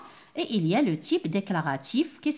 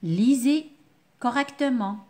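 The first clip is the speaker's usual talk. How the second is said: advice tone; 3 semitones higher, 4 dB louder than usual. Shown as a demonstration. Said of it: "lorsque je donne un conseil".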